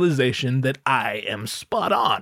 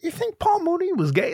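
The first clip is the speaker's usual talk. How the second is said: much higher, softer gasping disbelief; mock the clueless surprised public; incredulous people; 14 semitones higher, 4 dB quieter than usual. Clueless public gasping at the news, much higher. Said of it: "People are like".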